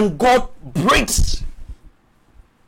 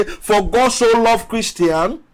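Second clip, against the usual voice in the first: higher, questioning misquote of 'Christian'; mock misquote; 4 semitones higher than usual. Shown as a demonstration. Preacher mocking a false verse to the congregation, higher and questioning. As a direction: toss it up as a mocking wrong version.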